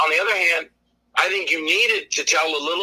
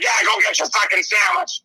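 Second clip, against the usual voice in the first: mock annoyed ghost; 4 semitones higher, 3 dB louder than usual. Ghost ordering his character.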